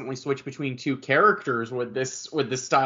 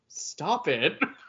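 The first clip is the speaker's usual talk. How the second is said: put-on offended voice, quieter; 5 dB quieter than usual. Retelling a game scene where Chris is offended: imitating Chris sounding offended. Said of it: "he's just genuinely offended".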